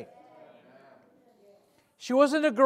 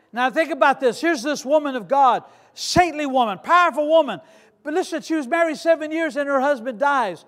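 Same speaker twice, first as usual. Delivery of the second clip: impassioned preaching; 6 semitones higher, 4 dB louder than usual. Acted. Preaching the widow's story.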